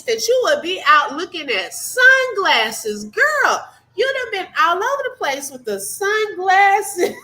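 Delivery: rising disbelief, teasing tone; incredulous. Real, not acted. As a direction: tease her with mock disbelief. Mocking the sunglasses shopping.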